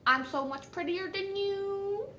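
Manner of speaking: mock a girl showing off; mock bragging. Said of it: "being all like".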